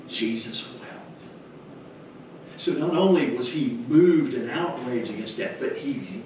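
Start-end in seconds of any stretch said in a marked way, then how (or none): 0.1-1.2 slow, near-whispered verse; hushed reading. Acted. Preacher reading the verse to congregation, slow and hushed. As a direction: let the two words hang in hushed awe.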